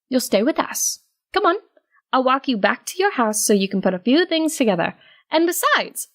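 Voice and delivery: a hint of Octavia brushing it off; Octavia dismissive.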